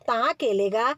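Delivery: तहाँ with t for k; baby-talk lisp. Retold or imitated. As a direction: coo it like a toddler. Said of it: "लाड़ी लाड में".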